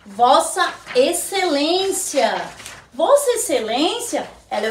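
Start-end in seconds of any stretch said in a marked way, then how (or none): 0.1-2.5 each syllable drawn out slowly for the class; slow model reading. Shown as a demonstration. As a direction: say Vossa Excelência slowly, stressing Vossa. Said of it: "teacher models the title". ("Vossa Excelência" dito bem devagar, sílaba por sílaba)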